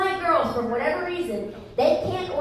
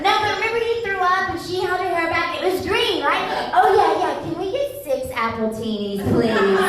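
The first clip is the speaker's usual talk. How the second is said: high, giggly protest; drunk girl protesting; 5 semitones higher than usual. Retold or imitated. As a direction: brush it off like a tipsy girl. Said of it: "So it goes like this".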